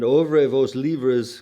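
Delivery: put-on slow, loud French in a Georgia accent. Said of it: "comes back in a Georgia accent".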